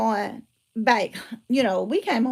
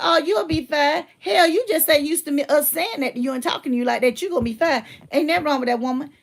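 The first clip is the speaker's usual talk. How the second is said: lightly voiced no-nonsense dad, a touch higher; brusque dad; 3 semitones higher, 4 dB louder than usual. Dad answering his daughter's complaint about her teacher, mildly brusque. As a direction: imitate a dad brushing off a complaint. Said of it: "See, that's how he talk".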